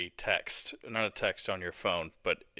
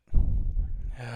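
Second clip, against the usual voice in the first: slow exhale of held breath; long audible exhale; 5 dB louder than usual. Real, not acted. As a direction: let the held breath out slowly. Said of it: "slowly releasing it".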